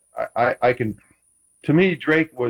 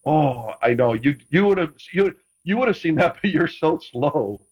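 mocking ribbing; 2 semitones higher than usual. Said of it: "you'd make fun of 'em".

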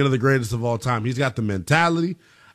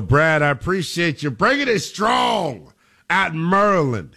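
hyped-up radio host; 3 semitones higher than usual. Real, not acted. Host hyping up the caller.

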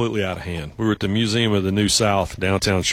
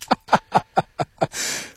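breathy laugh; 8 semitones higher than usual. Real, not acted. Laugh after the retold protest.

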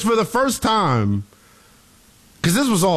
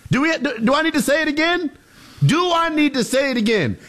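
incredulous; 5 semitones higher than usual. Real, not acted. Incredulous rhetorical repeat to co-host.

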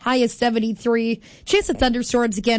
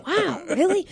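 slightly raised, affronted reaction; mock offended; 5 semitones higher than usual. Host unrecognized by people she knows, mildly mock offended. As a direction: play at being a little put out. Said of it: "I'm, like, kind of offended".

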